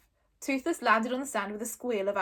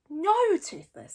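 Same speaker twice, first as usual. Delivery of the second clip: slow, loud, firm refusal; firmly; 7 semitones higher, 5 dB louder, slower than usual. Acted. Hiccup refusing his dragon, firm. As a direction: lay down the rule. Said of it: "said Hiccup firmly".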